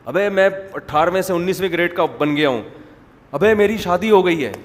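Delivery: acted burst of good news; happy announcement. Man telling everyone his promotion and wedding, happily. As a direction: blurt it out, mildly overjoyed. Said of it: "شروع شروع میں تو کہہ رہے ہوتے ہیں خوشی سے".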